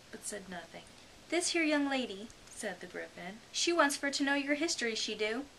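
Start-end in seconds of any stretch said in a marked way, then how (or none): 1.3-5.4 high, loud, quick common creature voice; rough griffin. A narrator's reading. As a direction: bark it like a cheeky griffin.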